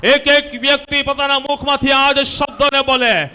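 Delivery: rousing healing-service preacher; rally the congregation to declare it with you; forceful preaching. Real, not acted. Preacher leads congregation in loud declaration.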